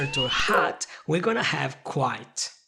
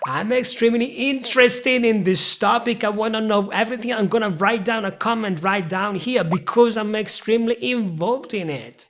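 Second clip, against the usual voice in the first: higher, louder overexcited example; hyped up; 4 semitones higher, 4 dB louder than usual. Shown as a demonstration. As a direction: pour lots of emotion into it. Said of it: "You wanna use a lot of emotions".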